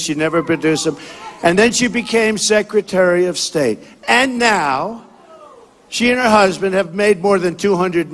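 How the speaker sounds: forceful rally oratory to a crowd; rally speech. Acted. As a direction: campaign speech, punchy and declaiming.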